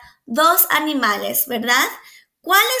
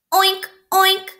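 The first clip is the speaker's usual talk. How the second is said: higher, playful oink; pig oink; 6 semitones higher, 4 dB louder than usual. A narrator's reading. Teacher reading to children, playful pig oink. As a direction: snort it like a piggy. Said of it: "gruñó el cerdo".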